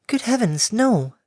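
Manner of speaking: airy timid pegasus; gentle mare voice. Acted.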